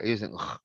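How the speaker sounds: throaty French r; French guttural R. Shown as a demonstration. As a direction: growl the r from the back of the throat. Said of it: "la R en francés es atrás, por la garganta, gutural".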